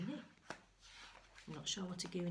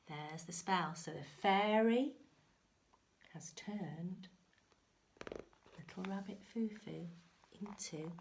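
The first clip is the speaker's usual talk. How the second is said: whisper; 3 dB louder than usual. Real, not acted.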